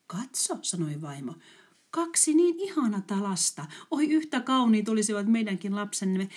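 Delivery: put-on an old mother seeing children like her lost ones; moved mother. (liikuttunut äiti)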